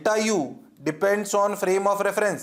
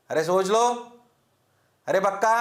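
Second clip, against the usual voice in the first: ordinary delivery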